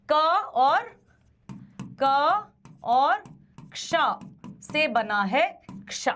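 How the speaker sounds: क्ष built slowly from क and ष; sounding out. Shown as a demonstration. Teacher showing students how क्ष is formed, slow. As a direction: draw out each piece, then join into क्ष. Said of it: "तो क्ष भी".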